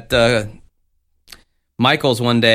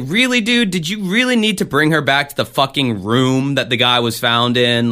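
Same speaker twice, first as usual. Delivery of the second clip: exasperated disbelief; 3 semitones higher than usual. Retold or imitated. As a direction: scoff at it in disbelief. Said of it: "I was like".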